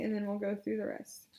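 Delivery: ordinary talk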